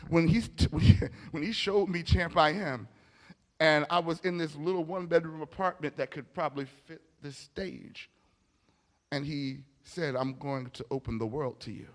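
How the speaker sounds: ordinary delivery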